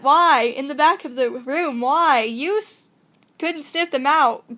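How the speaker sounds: put-on emphatic, hammy British accent. Hidden watcher puzzling over the stalkers, hammy British accent. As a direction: lecture in a theatrical British accent. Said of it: "I don't know if I want to do the accents".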